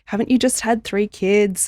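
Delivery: acted-out comforting of a friend; supportive friend. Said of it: "often we would just support them".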